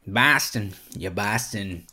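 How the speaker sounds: put-on trying out a Boston accent; Boston accent attempt. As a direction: test a rough Boston accent. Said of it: "what accent was that".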